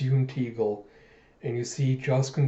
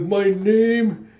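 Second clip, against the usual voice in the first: raised, drawn-out hero's announcement; grand self-introduction; 8 semitones higher, 6 dB louder, much slower than usual. Retold or imitated. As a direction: announce yourself grandly, pausing for suspense.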